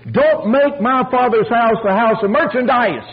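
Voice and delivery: high-pitched preacher's proclamation; retold shout. Preacher quoting Christ purging the temple, shouted. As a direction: call it out as a ringing rebuke. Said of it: "he shouted".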